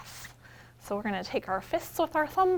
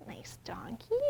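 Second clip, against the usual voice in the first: whispered aside; 3 semitones lower, 9 dB quieter than usual. Acted. Librarian whispers to the toy donkey. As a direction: breathe it to the puppet.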